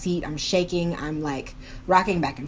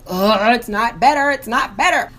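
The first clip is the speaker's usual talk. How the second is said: mock groan; 2 semitones higher, 4 dB louder than usual. Stomach getting worse, groaning complaint.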